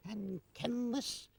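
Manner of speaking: hammed-up high Scottish brogue; broad Scots voice, drawn out; Scottish accent. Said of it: "This is Hint of the Highlands".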